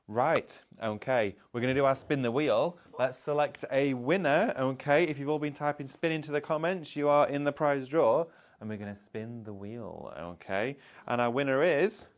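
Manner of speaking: loud, high, bright game-show hype; hyped giveaway announcement. Real, not acted. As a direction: build it up like a prize draw host. Live giveaway on shopping show.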